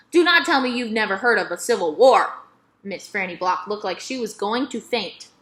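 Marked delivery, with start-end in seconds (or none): 0.1-2.3 put-on louder, appalled old lady; shocked. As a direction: gasp it out, scandalized. Miss Franny shocked, louder.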